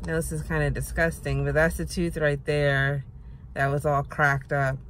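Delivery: talking with gauze in mouth; muffled, gauze in mouth. Real, not acted. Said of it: "I have a gauze in my mouth".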